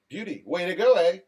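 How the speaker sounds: mock Canadian, "eh" falling at the end; Canadian accent. Host redoes Daniel's comment, in a mock Canadian accent. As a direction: redo it in a put-on Canadian accent. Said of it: "It's like a northern, southern Canadian".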